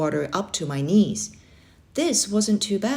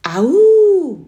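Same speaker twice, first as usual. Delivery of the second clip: full high yell of release; 12 semitones higher, 11 dB louder than usual. A narrator's reading. Boy yelling to let out fear at the lake. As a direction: let it rip from the chest. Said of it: "I yelled".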